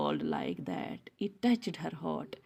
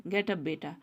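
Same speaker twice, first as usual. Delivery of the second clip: friendly; slower than usual. Acted. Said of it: "नहीं, friendly बोला".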